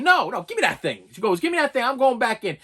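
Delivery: insistent wife. Retold or imitated. Wife demanding the thing from her husband, insistent. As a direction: act out a wife taking charge.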